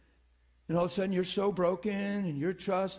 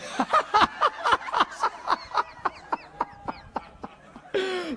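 real laughing fit, high and loud; 11 semitones higher, 4 dB louder than usual. Real, not acted. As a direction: burst out in high breathy laughter. Laughing at a funny memory.

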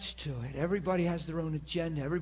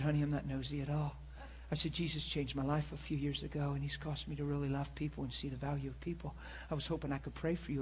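gentle, softer retold answer; soft, humble reply; 5 dB quieter, faster than usual. Preacher recalling his reply to a rude lady, soft and humble. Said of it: "something so soft and so humble".

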